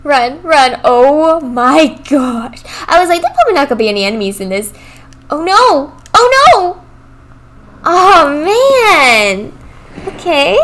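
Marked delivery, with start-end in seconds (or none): 0.0-9.5 being chased. Real, not acted. Chased again, dies.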